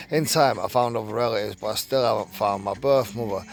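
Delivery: reading a written account aloud; story read-aloud. Acted. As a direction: read it out like a magazine true story.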